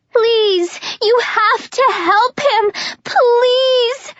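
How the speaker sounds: high, pleading begging; desperate begging. Acted. Juliet begging the soldiers to help Jenkins, desperate. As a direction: beg them, near hysterics.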